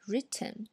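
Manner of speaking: Written with a fully released T; Written, careful book pronunciation; clear dictionary written. Shown as a demonstration. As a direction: say Written the textbook way, T popped. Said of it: "我们说written".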